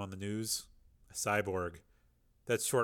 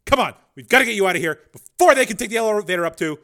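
higher, louder urgent order; urgent shout; 10 semitones higher, 14 dB louder than usual. A narrator's reading. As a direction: hurry them out. Rick urges escape.

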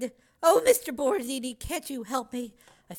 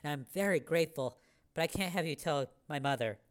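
much lower, softer, subdued; small apologetic voice; 10 semitones lower, 6 dB quieter than usual. A narrator's reading. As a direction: speak small and sorry.

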